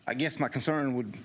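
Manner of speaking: winded from running up; slightly breathless, catching air; out of breath. Real, not acted. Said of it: "I'm out of breath, I run up here".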